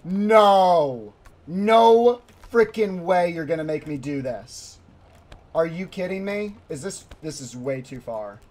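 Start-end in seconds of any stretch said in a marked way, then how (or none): 0.0-4.8 drawn-out, louder no, then protest; loud refusal. Real, not acted. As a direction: refuse it point-blank, loudly. Refusing a scary move in game.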